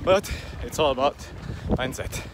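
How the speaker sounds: while running. Real, not acted. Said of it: "I'm getting a bit out of breath".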